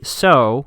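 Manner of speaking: "so" with the O stretched out; drawn-out SO. Retold or imitated. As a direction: read "so" as if spelled with many O's. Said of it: "with a whole bunch of O's".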